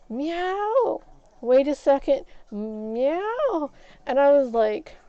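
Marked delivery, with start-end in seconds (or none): 0.1-3.7 imitating cat meow. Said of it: "he'd go".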